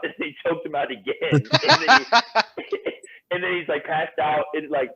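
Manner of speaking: real laughter breaking into the telling; cracking up. Real, not acted. Bouncer telling friends of repeated chokeouts, cracking up. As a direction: struggle through it high-pitched, laughing.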